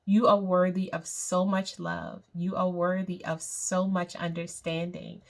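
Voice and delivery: calm guided meditation voice. Acted. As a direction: lead them gently through the breathing.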